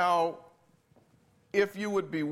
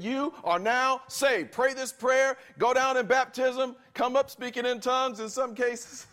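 lively rundown; 7 semitones higher, 4 dB louder than usual. Real, not acted. Mock altar call routine.

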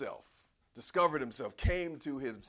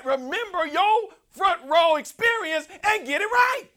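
full-force preaching; 17 dB louder than usual. Acted. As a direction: proclaim it from the pulpit.

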